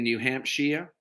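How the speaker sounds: "Hampshire" with the last syllable as "shee-uh"; HAMPSHIRE ending "sheer". Shown as a demonstration. Trying out the US state's name, "Hampshire" said as "HAMP-sheer".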